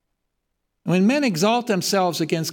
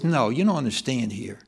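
God's stern voice; 6 semitones lower than usual. Acted. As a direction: speak as God putting man in his place. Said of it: "God says".

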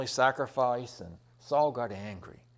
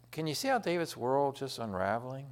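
ordinary talk, nothing marked

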